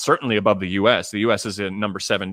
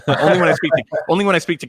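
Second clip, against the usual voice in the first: breaks into a laugh mid-phrase, higher and louder; 8 semitones higher, 7 dB louder, faster than usual. Real, not acted. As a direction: say it through a real chuckle. Amused remark about her accent.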